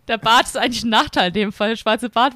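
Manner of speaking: ordinary talk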